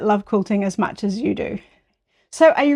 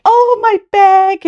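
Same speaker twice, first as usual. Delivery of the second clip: high, loud, drawn-out mock longing; playful, high-pitched retold exclamation; imitating Zach; 10 semitones higher, 7 dB louder, slower than usual. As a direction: stretch it out high, imitating a friend pining for it. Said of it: "he was just like".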